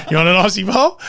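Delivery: high, eager offer; loud and keen, like a doting nan; excited mum voice. Retold or imitated. Mum offering, repeated louder.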